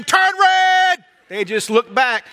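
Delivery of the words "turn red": sudden high, loud order; a mock-stern yell at stubborn tomatoes; commanding shout. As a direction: bark the command at the plants.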